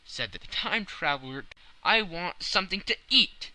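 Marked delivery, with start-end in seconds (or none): 1.8-3.5 high, loud insistence; insistent. A narrator's reading. Famished traveler refusing to talk before eating, loud. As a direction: demand food before anything.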